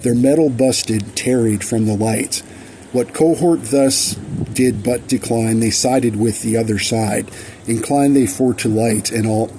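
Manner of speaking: measured, rhythmic verse reading; deliberate storybook-ballad cadence; poem recitation. Acted. Reads own verse aloud.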